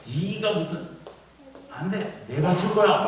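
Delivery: high-pitched mock bickering; acted squabbling. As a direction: act out rivals quarrelling over first place. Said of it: "하면서 싸움도 나기도 하는".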